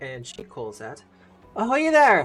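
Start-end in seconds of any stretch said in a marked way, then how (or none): 1.6-2.3 put-on cheery halfling woman voice, slight accent, higher, louder. Voicing a cheery halfling woman greeting travelers at the dock: cheery halfling woman, slight accent. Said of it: "she's got a little bit of an accent".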